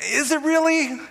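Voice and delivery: a skeptic who expects a letdown; skeptical doubt. Retold or imitated. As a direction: question the hype, half mocking. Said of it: "So I'm kinda like".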